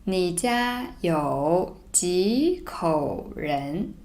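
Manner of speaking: slow, joined read; slow read-through. Shown as a demonstration. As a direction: read the line slowly but smoothly. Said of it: "let me read it slowly first".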